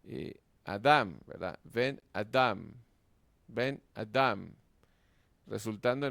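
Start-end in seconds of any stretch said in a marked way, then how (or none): 0.7-1.2 "Adam" slow, loud on "dam"; drawn-out "a-DAM"; stress on final syllable. Shown as a demonstration. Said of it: "el acento se traslada a la palabra". 1.6-2.7 "Ben Adam" slowly, leaning on "dam"; stress on second word. Shown as a demonstration. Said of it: "el acento se traslada a la palabra". 3.5-4.5 "Ben Adam" slow, weight on "dam"; measured "Ben a-DAM"; stress on second word. Shown as a demonstration. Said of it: "el acento se traslada a la palabra".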